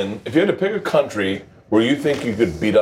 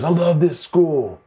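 hyped-up stage shout-out, pitched higher; slow, higher call to a crowd; Luke Perry; 6 semitones higher, slower than usual. Retold or imitated. Quoting a performer at a school function, hyped-up imitation.

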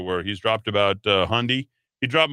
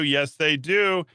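slower, higher, mock-knowing "Yes, they do" with a falling end; slow emphatic; 5 semitones higher, slower than usual. Shown as a demonstration. Host repeating himself for a slow, knowing emphasis. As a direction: drag it out like a knowing wink. Repeats line two ways.

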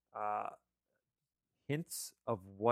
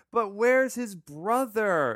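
suspicious question; 8 semitones higher, 6 dB louder, slower than usual. Retold or imitated. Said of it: "It's like".

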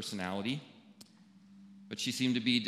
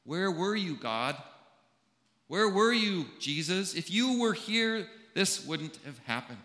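rising, anguished plea, louder and higher; crying out; 6 semitones higher, 3 dB louder than usual. Retold or imitated. Preacher voicing Martha grieving her brother, a pleading cry. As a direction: cry out to God in grief, pitched up. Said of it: "She cries".

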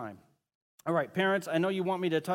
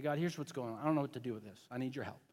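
honest prayer; 4 semitones lower, 8 dB quieter, faster than usual. Retold or imitated.

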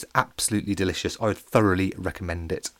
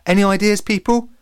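snarling; 10 semitones higher, 5 dB louder than usual. A narrator's reading. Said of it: "snarled Alex".

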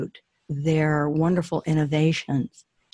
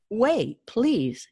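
shouting prince; 6 semitones higher than usual. Acted. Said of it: "shouted the prince".

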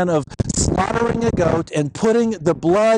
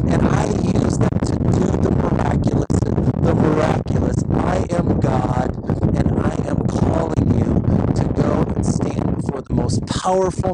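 God's voice; 3 semitones lower than usual. Acted. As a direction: speak as God, calm and certain. God answering Moses firmly.

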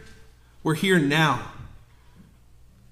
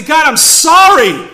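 louder, slow heartfelt plea to God; earnest plea; 7 semitones higher, 8 dB louder, slower than usual. Pretend. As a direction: cry out your sorry. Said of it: "before the Lord and say".

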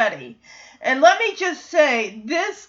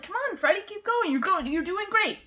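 higher, softer cheering-on; encouraging; 5 semitones higher, 7 dB quieter, faster than usual. Retold or imitated. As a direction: imitate a friend urging him to keep going. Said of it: "how Ricky is encouraged".

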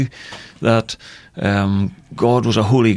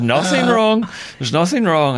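high-pitched, brushed-off denial; acted-out denial, pitched up high; retold protest; 8 semitones higher than usual. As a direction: insist in a much higher voice. Retelling his denial to colleague.

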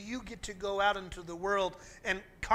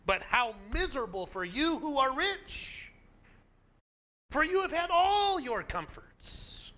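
angry shout; 6 dB louder than usual. Retold or imitated. Preacher shouting warnings at the rich congregation. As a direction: thunder it out at full throttle, a little angry. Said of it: "Luke shouts with a tinge of anger".

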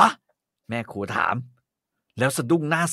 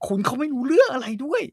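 tearful plea; 5 semitones higher than usual. Acted. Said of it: "พูดเสียงสั่นขึ้นทุกที แล้วยกมือปาดน้ำตา".

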